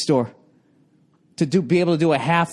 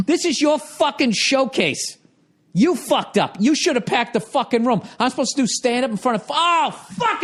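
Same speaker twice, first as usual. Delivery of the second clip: imagined rant; 3 semitones higher than usual. Retold or imitated. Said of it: "I wish I said that".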